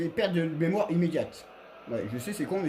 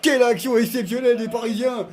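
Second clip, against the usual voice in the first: esports caster; 3 semitones higher, 3 dB louder than usual. Acted. Player commentates his own goal.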